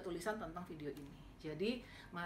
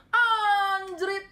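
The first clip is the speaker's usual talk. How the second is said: sudden much louder, higher exclamation; startled curse; 12 semitones higher, 15 dB louder than usual. Retold or imitated. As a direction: blurt the shock out loud. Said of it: "Dia bilang gitu".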